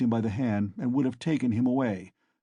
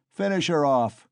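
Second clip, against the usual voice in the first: loud, raised-pitch command; shouted order; 4 semitones higher, 5 dB louder than usual. A narrator's reading. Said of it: "shouted Mikolka".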